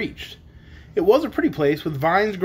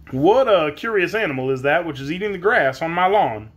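inquiring man. A narrator's reading. Man inquiring about the horse, curious. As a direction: ask as the puzzled householder. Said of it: "inquired the man's voice".

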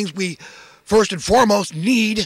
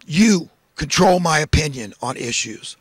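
modeling a prayer; 3 semitones lower than usual. Pretend. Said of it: "get on your knees and say".

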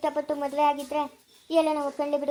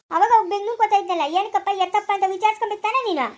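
raised, scolding voice; angry rebuke; 3 semitones higher, 4 dB louder than usual. Acted. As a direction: rebuke her for negligence. Elder rebukes Savitri for not asking. (ಗದರಿಸುತ್ತಾ)

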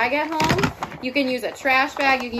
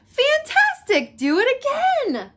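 shout; 13 semitones higher, 6 dB louder than usual. Acted. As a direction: cheer him on with a shout. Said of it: "Elizabeth shouted".

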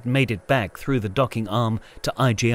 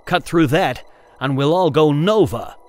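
tense warning; 4 semitones higher, 5 dB louder than usual. A narrator's reading. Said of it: "Jason panted, his eyes wide".

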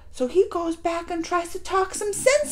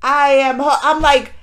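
can't contain how hooked she is; excited rave; 11 dB louder than usual. Real, not acted. Viewer raving to the camera about the show, loud and excited.

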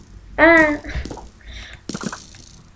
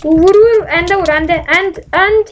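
shouted orders; 3 semitones higher, 5 dB louder, slower than usual. Real, not acted. Yelling orders in fight.

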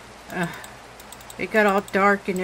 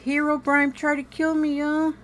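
rattled exclaim; 6 semitones higher than usual. Real, not acted. Shaken after Herobrine attack.

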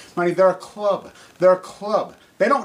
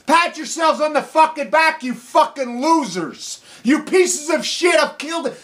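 furious insults; 4 semitones higher than usual. Real, not acted. Calling critics pathetic losers, furious. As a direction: spit the insults out.

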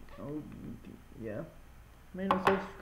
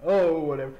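louder, brushing it off; 7 dB louder than usual. Acted. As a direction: toss it off loud and breezy. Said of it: "That sounds like me if I see something creepy".

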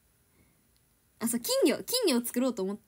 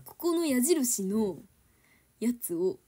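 mock instruction reading; 4 dB louder, slower than usual. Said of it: "なんか".

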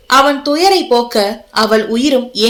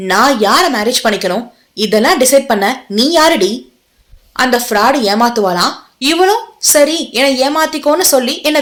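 mild lashing anger. Acted. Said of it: "நாவென்னும் சாட்டையால் அவளை வாட்டி வதைத்தான்".

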